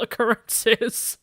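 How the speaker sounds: usual speaking voice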